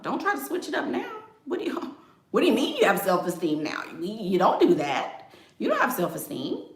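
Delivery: lightly voiced scornful boyfriend; mocking ex. Voicing a man mocking partner.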